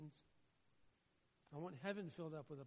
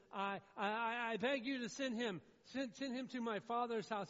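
loud, raised-pitch acted plea; imitating a desperate beggar at preaching volume; begging; 5 semitones higher, 9 dB louder than usual. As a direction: plead forcefully, stumbling over the first words. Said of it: "Now he's begging".

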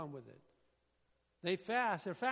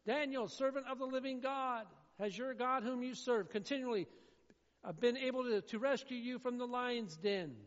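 high, loud anguished call; a king crying out into the lions' den; yelling the question; 6 semitones higher, 4 dB louder than usual. Acted. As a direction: shout it down hoping for an answer. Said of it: "He yells out that question".

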